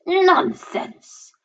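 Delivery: high-pitched dismissive scold. A narrator's reading. Mother dismisses her daughters' fright, scolding. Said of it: "Their mother scolded".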